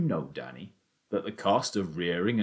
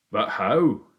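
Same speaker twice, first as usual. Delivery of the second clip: eager cry; 7 dB louder than usual. A narrator's reading. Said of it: "he cried".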